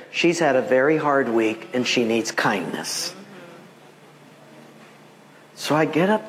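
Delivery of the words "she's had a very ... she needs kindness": lower, understated word from the Lord; voice of God. Retold or imitated. The Lord explaining about the desk clerk, low. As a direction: lightly voice God, low and measured. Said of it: "this is what he said".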